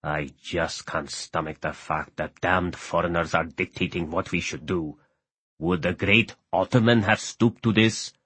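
low, soft, trembling; old man trembling with bitterness. A narrator's reading. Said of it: "said the Pasha in a trembling voice".

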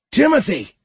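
loud, high-pitched yell; shout. A narrator's reading. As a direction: shout the name urgently for help. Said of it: "Magnolia shouted".

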